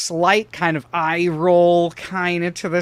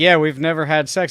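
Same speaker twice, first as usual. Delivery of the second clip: usual speaking voice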